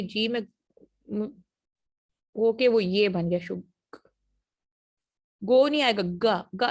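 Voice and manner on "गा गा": "गा" as a short hard g with a; ga sound. Shown as a demonstration. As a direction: repeat "गा" clearly. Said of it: "ये गा जो लिखा है".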